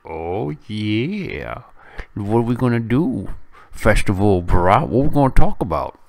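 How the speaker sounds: loud, fast, rising to near shouting; excited reply. Retold or imitated. Professor eagerly answers the festival invitation, loud and excited. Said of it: "And I said".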